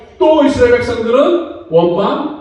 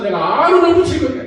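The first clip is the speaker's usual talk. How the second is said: exasperated retort, pitched up at first; retold divine anger. Preacher voicing God answering reluctant Moses, mildly acted anger. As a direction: imitate God's impatient reassurance. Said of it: "막 이렇게 화내지 않습니까".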